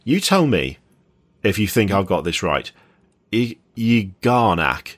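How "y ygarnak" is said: Ygarnak said slowly, syllable by syllable, yuh-GAR-nak; careful attempt. Shown as a demonstration. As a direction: sound out Ygarnak with a hesitant Y- restart. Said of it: "I'm gonna give it a go".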